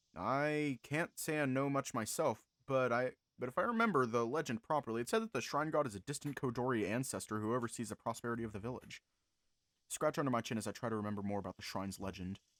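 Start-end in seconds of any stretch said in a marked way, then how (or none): none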